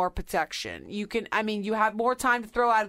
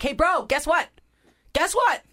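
high, loud sing-song taunt, easing down by the end; mock teasing warning; 3 semitones higher, 4 dB louder than usual. Acting out teasing pink-slip warning.

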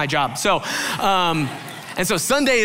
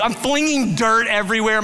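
ordinary delivery

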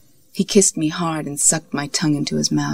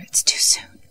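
whisper. A narrator's reading. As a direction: whisper it close to the ear. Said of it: "I heard Molly whisper".

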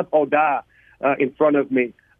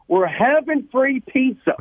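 retold yell; 8 semitones higher, slower than usual. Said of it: "he yells this".

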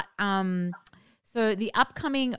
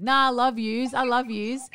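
put-on Aussie accent; 4 semitones higher than usual. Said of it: "people always, like".

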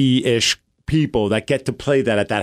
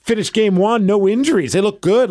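retold optimism; 7 semitones higher than usual. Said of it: "I was like".

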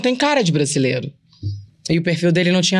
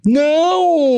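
high, louder burst of denial; emphatic no; 8 semitones higher, 3 dB louder than usual. Real, not acted. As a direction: shoot the idea down at once.

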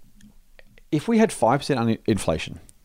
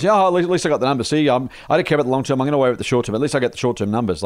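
mock short-sighted CEO; 3 semitones higher, faster than usual.

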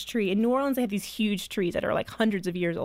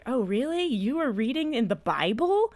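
teasing disbelief; 3 semitones higher than usual. Retold or imitated. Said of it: "and I'm like".

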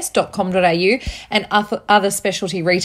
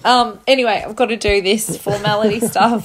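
sniffling. Real, not acted. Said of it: "Sorry about all the sniffling".

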